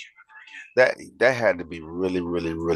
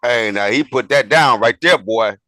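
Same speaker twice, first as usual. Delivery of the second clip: hyped reaction; 3 semitones higher, 8 dB louder than usual. Real, not acted. Hyped reaction to the clip's line.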